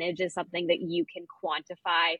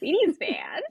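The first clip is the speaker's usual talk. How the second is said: mock echo; 9 semitones higher, 5 dB louder than usual. Echoing the mocking line.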